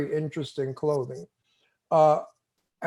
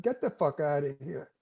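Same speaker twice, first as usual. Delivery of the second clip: a hint of a tough Brooklyn New York accent, a bit softer; lightly put-on New York tough-guy accent, spat out; 3 semitones lower, 5 dB quieter than usual. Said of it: "my Brooklyn tough New York accent".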